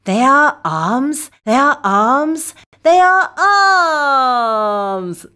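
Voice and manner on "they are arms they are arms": put-on clear, bright teacher voice for children; kids show host. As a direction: lead the little ones in a chant. Kids show host drilling words.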